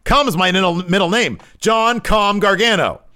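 hammed-up hysterical Gargano yelling at the therapist; shrill demand. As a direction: screech lock him up at the therapist. Gargano insists he's calm.

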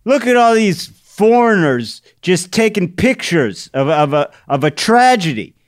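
high, loud attempt at an Irish accent; indignant mock-Irish outburst; Jerry, Irish grandfather. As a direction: complain in a hammed-up Irish brogue. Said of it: "I can't do an Irish accent, but he goes".

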